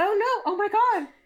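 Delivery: very high, slow, alarmed panicked gasp. Voicing a character who sees someone drowning: gasping in panic, like the other guy. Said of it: "I sounded like the other guy".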